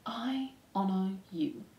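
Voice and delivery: very slow, hushed vow; whispered. Acted. Despereaux repeats the treasured words, slow reverent whisper. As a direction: whisper it slowly, savoring each word. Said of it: "whispered Despereaux".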